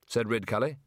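ordinary delivery, nothing marked

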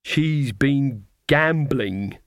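slow, drawn-out scandalised gasp of gossip; prim and smugly appalled; smug horror. Acted. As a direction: savour the scandal slowly. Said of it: "in tones of smug horror".

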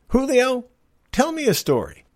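high called-out name, then the order; a pirate captain summoning his mate; calling Julio from across the deck. Acted. Captain calls to first mate.

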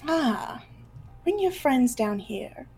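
a lightly voiced assistant trailing to a whisper; whispery assistant voice.

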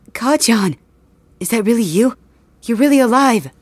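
overwhelmed with relief; tearful joy. Acted. Overjoyed friend is alive.

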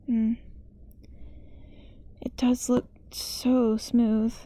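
slow, entranced whisper. Acted. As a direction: savour it like a forbidden temptation. Creepy longing for the dough.

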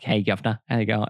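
lightly imitated Cockney greeting; a hint of mock Cockney; casual put-on London Cockney hello; Cockney accent. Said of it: "like the Cockney end of London".

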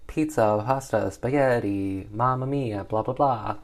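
hammed-up fake Italian auction call; mock Italian auctioneer. Slave trader auctioning in a mock Italian patter. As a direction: play a cartoon Italian auctioneer. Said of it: "in, like, the auctioning voice".

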